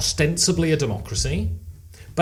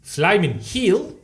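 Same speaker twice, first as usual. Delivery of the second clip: drawn-out New Zealander demo; New Zealand accent; slower than usual. Shown as a demonstration. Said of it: "Okay, now New Zealand".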